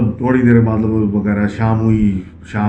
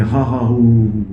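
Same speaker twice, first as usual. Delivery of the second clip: slow imitated ha ha ho ho laughter; mock ghostly children's laughter; slower than usual. Narrator imitating the children laughing on the roof, slow mock laughter. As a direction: mimic the unseen children cackling, unhurried. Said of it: "پھر کہہ کے لگ رہے ہیں".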